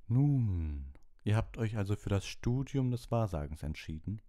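a lightly voiced otherworldly divination teacher; a hint of a mysterious seer, unhurried at the end; dreamy seer. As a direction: speak as if half in another world. Trelawney's held voice.

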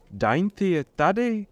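high, drawn-out joyful surprise; light up at good news; delighted. A narrator's reading. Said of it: "zaradoval se Marigold". (radostně, protáhle)

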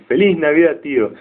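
sobrino alegre. Retold or imitated. Sobrino desea feliz navidad.

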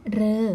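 "เรอ" held as one open syllable; ฤ read as "roe". Shown as a demonstration. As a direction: say "เรอ" with a long oe vowel. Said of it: "จะอ่านออกเสียงว่า". (ออกเสียง "เรอ" สระเออเสียงยาว)

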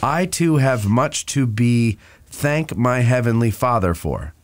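slow, lightly put-on Rhode Island accent; New England accent. Co-host restarting the soldier's letter, slow mild New England accent. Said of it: "Do it, do it in that New England accent".

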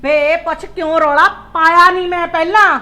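upset outburst. Acted. Mother to son about her slapped daughter, agitated and loud. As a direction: burst out in alarm over the news.

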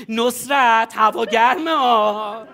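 casual familiar tone. Shown as a demonstration. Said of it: "مثلاً میگی".

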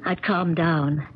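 calm, measured narrator voice over music; story narration. A narrator's reading. Julia narrates to the listener what happened after, calm narration.

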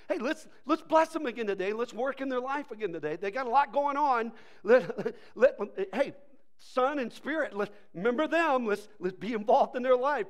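rally the team with urgent enthusiasm; animated pep talk; excited God rallying heaven. Acted.

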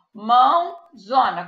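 mãozona said slowly, each syllable clear; spelled-out dictation. Shown as a demonstration. Teacher showing children how to write mãozona. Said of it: "escreve normal".

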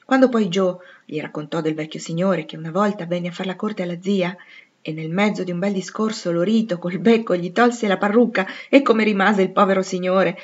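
ordinary delivery

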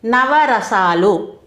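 each syllable of నవరసాలు drawn out slowly; నవరసాలు spoken very slowly, syllable by syllable; slow dictation. Shown as a demonstration. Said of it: "అవి కొన్ని ఉదాహరణలు చూద్దామండి".

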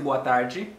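"tarde" ending in a "jee" sound; final i sound. Shown as a demonstration. Teacher showing learners that final e becomes i, final i sound. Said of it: "li vin ba yon son i".

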